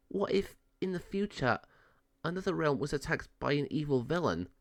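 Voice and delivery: a fairy half-worried about the future, lightly voiced. Fairy Livia wondering.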